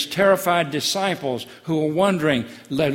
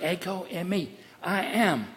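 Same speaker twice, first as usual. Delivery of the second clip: hushed sacred name; 3 semitones higher than usual. Shown as a demonstration. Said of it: "It's the sacred name of God Almighty".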